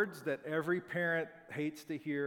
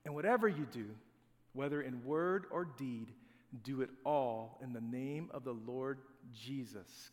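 scripture reading. Acted. Reads Colossians passage aloud.

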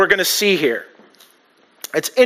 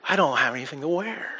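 mock complaint; 5 semitones lower, 11 dB quieter than usual. Mocking women at their closets.

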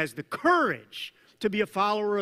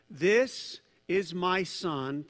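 solemn scripture quote; much slower than usual. Acted. Quoting God's voice from the cloud.

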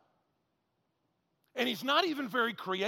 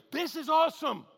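a bit higher and louder thrilled burst; mock thrilled burst; 6 semitones higher, 5 dB louder than usual. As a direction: say it like a quick rush. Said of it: "burst to say".

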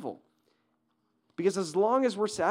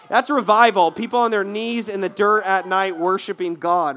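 fervent preaching; 2 semitones higher, 9 dB louder than usual. Real, not acted. Preacher building to climax.

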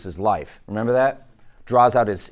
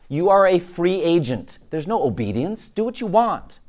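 emphatic, raised-pitch tempter's pitch; mock tempter; 5 semitones higher than usual. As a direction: sell it like a tempter, pitch jumping up. Voices the satanic deception of freedom.

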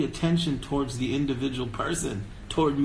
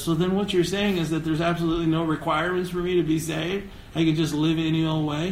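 skeptical churchgoer; 4 semitones higher than usual. Retold or imitated. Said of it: "they automatically go to the other extreme and says".

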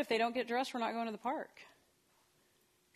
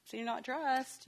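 light gentle; 6 semitones higher, much slower than usual. Shown as a demonstration. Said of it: "I would just be like".

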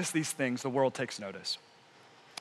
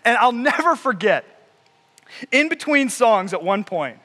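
normal talking voice

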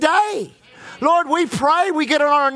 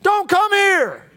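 1 warning from hell; 8 semitones higher, much slower than usual. Pretend. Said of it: "the message would be from hell".

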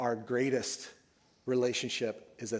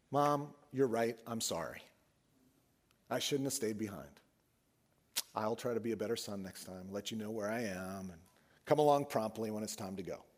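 facetious meek apology; 4 semitones lower than usual. Pretend. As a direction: play it as a sarcastic, overly obedient apology. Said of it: "No, I'm being facetious".

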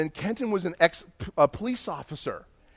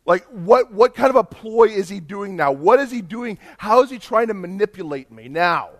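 acted suspicion; 2 semitones higher, 5 dB louder than usual.

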